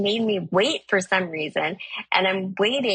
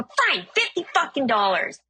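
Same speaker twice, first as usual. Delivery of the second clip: higher-pitched mock outburst; exasperated giving in; 6 semitones higher than usual. Driver caves to stranger's price, exasperated. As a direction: give in with an irritated, pitched-up retort.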